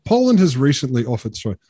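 a light put-on Polish accent, reading the quote; mock Polish accent. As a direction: lightly imitate a Polish spokesman. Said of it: "This is not the Accent podcast".

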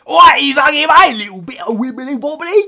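high, giggly, silly delivery; laughing silly voice. Acted. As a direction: ham it up while laughing.

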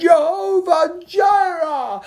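shouted Jehovah Jireh. Retold or imitated. Preacher as Abraham crying out the name at the ram, high slow shout. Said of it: "schreeuwde hij het uit".

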